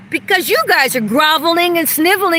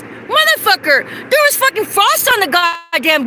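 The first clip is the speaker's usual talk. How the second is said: shouted high in real anger; real furious yell at the people he blames; angry shout; 6 semitones higher than usual. Real, not acted. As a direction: blurt it out at full force. Furious rant about the cold.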